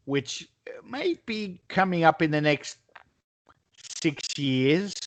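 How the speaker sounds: whispered aside, no voice. Real, not acted. Whispered aside to a Browns fan friend, teasing. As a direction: drop to a sly whisper for the jab. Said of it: "When they're good".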